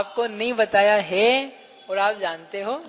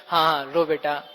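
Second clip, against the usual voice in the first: mock consoling; 4 semitones lower than usual. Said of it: "क्या कहेंगे उससे".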